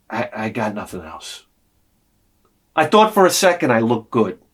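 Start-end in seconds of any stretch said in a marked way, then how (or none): 0.1-1.5 much softer sheepish mumble; meek mumble. Retold or imitated. Answering his wife about the outfit, soft sheepish mumble. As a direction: shrink away as you answer.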